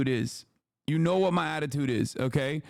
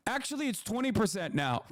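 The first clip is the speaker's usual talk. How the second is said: laughing through a quote; 7 semitones higher, 5 dB quieter than usual. Retold or imitated. Streamer laughing as he quotes Trump's tariff hike. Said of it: "he goes".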